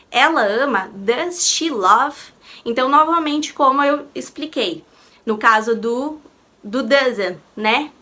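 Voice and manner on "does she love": slow modelling. Shown as a demonstration. Teacher modelling an English question for students, slow and clear. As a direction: Do you love spoken very slowly and clearly. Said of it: "teacher modelling English question".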